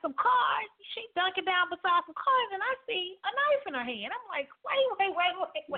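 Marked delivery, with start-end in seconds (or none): 4.6-5.8 high alarmed repeated wait. Retold or imitated. To her friend with a knife, frantic high pleading.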